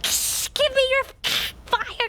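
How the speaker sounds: mock feral demand for fire; lightly acted savage begging; wild animal. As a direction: grab at it like a wild animal, playfully. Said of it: "Like wild animals".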